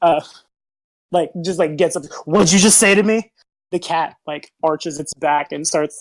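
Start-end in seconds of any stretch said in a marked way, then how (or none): 2.2-3.3 bristling, offended, indignant, affronted tone. Voicing a human who gets up after an insult: indignant. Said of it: "just indignantly".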